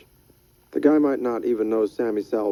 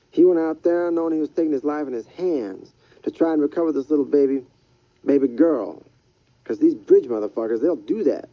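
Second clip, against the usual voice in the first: lightly raised, rough street hustler; Freddy's voice; 5 semitones higher than usual. Acted. Freddy warns Rydell about bridge people, raised hustler voice.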